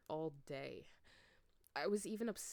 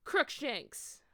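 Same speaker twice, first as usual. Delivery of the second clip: loud, high spell shout; 7 semitones higher, 7 dB louder than usual. A narrator's reading. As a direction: yell the spell at him. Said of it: "I shouted at him".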